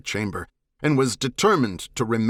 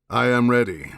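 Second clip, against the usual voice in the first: a mildly raised voice meant to carry across stone walls; projected loudly; 3 dB louder than usual. Acted. Vadam calling to the doors so the visitor hears, mildly raised voice. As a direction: speak up so it echoes in the hall, only a touch louder. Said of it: "He spoke loudly enough that his voice echoed".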